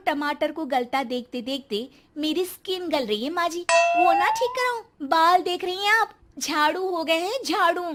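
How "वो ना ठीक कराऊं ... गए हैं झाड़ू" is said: whiny complaint. Acted. Spoilt bride complains to mother-in-law.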